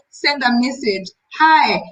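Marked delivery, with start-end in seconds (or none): 1.4-1.8 friendly greeting demo. Shown as a demonstration. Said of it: "remind them, say hi".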